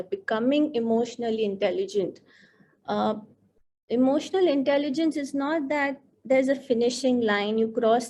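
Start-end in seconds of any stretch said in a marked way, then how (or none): 0.0-2.2 becoming given extra weight; stress on becoming. Shown as a demonstration. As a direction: lean on the word becoming. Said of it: "I would like to emphasize on the word becoming".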